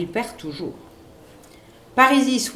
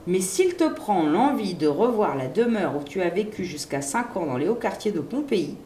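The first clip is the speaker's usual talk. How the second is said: usual speaking voice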